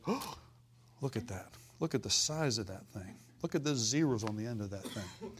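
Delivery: mock gasp then sinking dismay; a sigh of dread over a big bill; opening a frightening bill, mock dismay.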